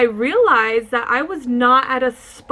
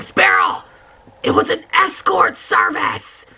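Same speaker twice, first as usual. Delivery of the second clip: rising exasperation; 9 semitones higher than usual. Real, not acted. Reveals escort service, rising.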